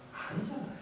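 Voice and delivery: breathy whisper of "아니잖아요"; whispered aside. Real, not acted. Pastor confiding to congregation, whispered aside.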